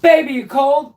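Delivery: put-on high, loud "Baby, you cold?"; loud mock question. Sleepwalker throwing blankets at his wife, loud mock question.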